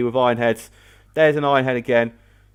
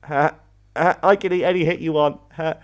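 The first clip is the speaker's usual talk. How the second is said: taunt. Acted. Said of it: "both can just sit there and go".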